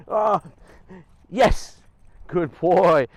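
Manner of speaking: reward him with your voice; excited praise. Real, not acted. Dog comes around again.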